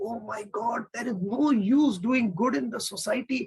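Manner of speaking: lightly acted high-pitched lament; hammed-up wail without real sobs; mock crying. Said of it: "She starts crying and says".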